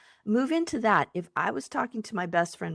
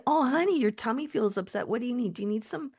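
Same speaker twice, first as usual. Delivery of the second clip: higher, tender soothing; mothering self-talk; 4 semitones higher than usual. Retold or imitated. Coach voices best friend comforting upset tummy, tenderly. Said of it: "mothering of yourself".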